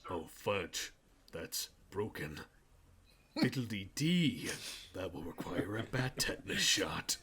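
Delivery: put-on soft, slow goody-goody kid voice; wholesome 1950s kid. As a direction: play the prim little kid, ending in a whisper. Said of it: "The speaker's like".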